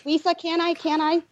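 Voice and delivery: put-on Transylvanian accent. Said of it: "The, the Transylvanian accent".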